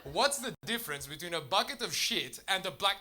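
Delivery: imitated Dutch accent. Dutch person offering the comedian a joke, Dutch accent. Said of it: "That's my Dutch accent".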